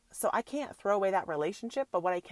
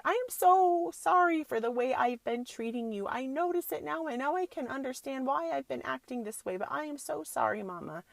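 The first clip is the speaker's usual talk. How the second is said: higher, slightly louder teary daughter apology, lightly imitated; mock tearful apology; 6 semitones higher, 4 dB louder than usual. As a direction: retell her sorry through a hint of tears. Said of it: "she started crying and said".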